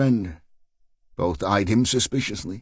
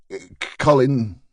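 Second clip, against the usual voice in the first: stammering; slower than usual. Acted. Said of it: "stammered the man".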